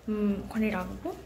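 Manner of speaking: unvoiced secret whisper. Real, not acted. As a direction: whisper it under your breath. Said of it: "আমি আস্তে আস্তে কথা বলছি". (ফিসফিস করে)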